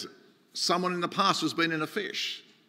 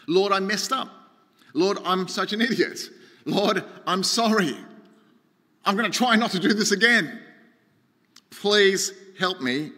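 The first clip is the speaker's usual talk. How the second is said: a mildly raised, earnest plea to God; crying out in prayer; 3 semitones higher than usual. Acted. Preacher models a sinner's prayer for the congregation, mildly pleading. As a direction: draw out the plea a little at the end. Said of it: "cry out to the Lord in prayer".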